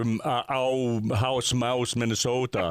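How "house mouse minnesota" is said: rounded, stretched O in "Minnesota"; Minnesotan O demo. Shown as a demonstration. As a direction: show the Minnesota vowels in "house, mouse, Minnesota". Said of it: "the O is that very".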